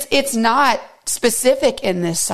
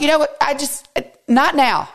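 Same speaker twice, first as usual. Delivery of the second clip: exasperated; 6 semitones higher than usual. Retold or imitated. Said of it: "And I'm like".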